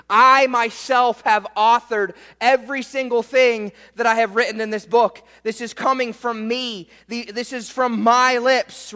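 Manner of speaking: lightly acted author vouching for his book; John confirming authorship. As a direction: insist on it as the witness. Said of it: "this is John confirming".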